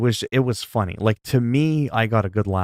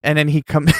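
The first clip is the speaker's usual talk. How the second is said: usual speaking voice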